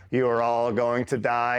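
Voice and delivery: relaying a threat word for word; measured imitation of an enemy threat; imitated radio relay. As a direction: mimic a level, droning radio message. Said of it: "he's repeating what they're saying verbatim".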